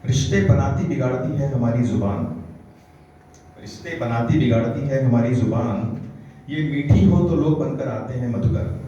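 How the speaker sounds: emphatic, evenly paced declamation; poetry recitation. Acted. Poet urging listeners to be like trees, declaimed recitation. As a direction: recite it as counsel in verse.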